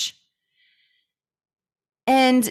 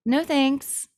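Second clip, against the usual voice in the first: polite refusal; 3 semitones higher, 3 dB quieter than usual. Shown as a demonstration. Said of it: "there is the".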